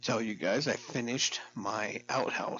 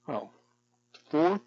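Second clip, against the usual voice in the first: sudden louder, higher yelp; startled; 5 semitones higher, 6 dB louder than usual. Real, not acted. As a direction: jolt at something unexpected.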